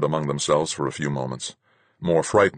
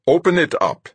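loud, high barked order; loud captain's command; 14 semitones higher, 7 dB louder than usual. A narrator's reading. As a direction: order him to open it. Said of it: "he commanded Bahadur".

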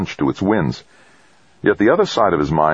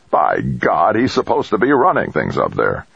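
angry; 7 semitones higher than usual. A narrator's reading. Angry tycoon berates mission chief.

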